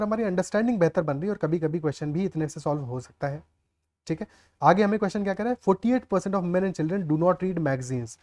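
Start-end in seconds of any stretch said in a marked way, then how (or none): 5.6-8.2 reading the question out word by word; slow read-aloud. Shown as a demonstration. Teacher reads the English question slowly to students. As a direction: dictate it slowly to the class.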